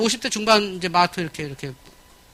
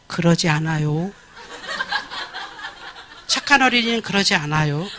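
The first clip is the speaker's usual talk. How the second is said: mock gentle teacher; 5 semitones lower than usual. 부드럽게 타이르는 교사 흉내.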